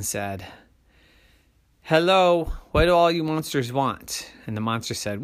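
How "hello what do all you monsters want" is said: big person. A narrator's reading. Big person addresses monsters.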